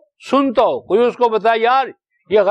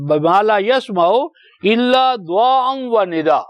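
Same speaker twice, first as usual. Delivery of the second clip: Quran recitation; slower than usual. Acted. Quoting the verse again.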